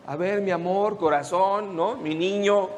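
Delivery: soft, cooing mock-parent voice; tender parent waking a child. Preacher imitating a parent gently waking a child, soft and tender. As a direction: coo it gently like waking your little boy. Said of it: "No lo fueron a despertar como despiertas a tus hijos".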